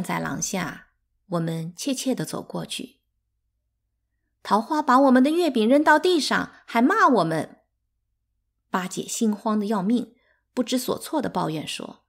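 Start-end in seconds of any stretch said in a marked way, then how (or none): 4.4-7.6 1 upset complaint. A narrator's reading. Children complain to third mother.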